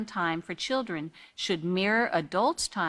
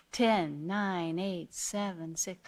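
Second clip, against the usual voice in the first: softer and softer countdown, fading out; calm countdown; 2 semitones lower, 6 dB quieter, slower than usual. Shown as a demonstration. Parent cooling off anger, counting down softly. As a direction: let each number drop quieter. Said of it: "counting backwards is actually better".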